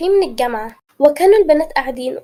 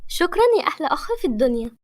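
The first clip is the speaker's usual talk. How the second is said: quick, happy thanks; joyful; faster than usual. Acted. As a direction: rush the thanks out with joy. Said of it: "ميرا في فرح".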